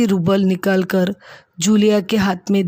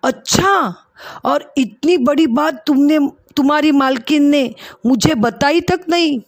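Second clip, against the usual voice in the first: higher, lightly raised mock outburst; mock shout; 4 semitones higher than usual. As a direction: play the shocked master, half-shouting. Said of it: "जोर से चिल्लाए". (ऊँची आवाज़ में हल्की बनावटी चिल्लाहट)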